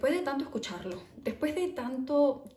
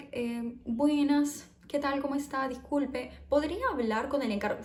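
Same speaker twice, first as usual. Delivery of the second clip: polite caller; 5 semitones higher than usual. Retold or imitated. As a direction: ask sweetly and hesitantly, like a timid caller. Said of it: "si yo estoy siendo amable". (llamada educadísima y lenta, pitch más alto)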